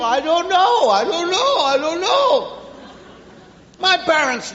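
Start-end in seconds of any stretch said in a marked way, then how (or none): 0.0-2.6 lightly voiced clueless kids, higher; clueless children. Children answering their parents all day, clueless. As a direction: repeat it helplessly in a raised voice. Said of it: "That's all you see".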